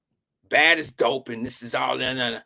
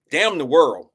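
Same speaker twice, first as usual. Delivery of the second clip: wearing a retainer; 5 dB louder than usual. Real, not acted. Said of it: "can't say that with my retainer in".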